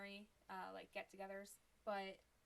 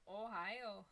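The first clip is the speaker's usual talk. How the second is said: lightly demonstrated Ohio accent; 4 dB louder than usual. Shown as a demonstration. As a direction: let the local vowels show in "Ohio". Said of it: "without sounding like".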